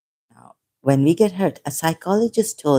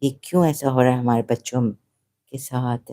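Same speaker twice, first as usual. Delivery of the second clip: mock calm talk; 4 semitones lower, 5 dB quieter, much faster than usual. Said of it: "they could talk very nicely".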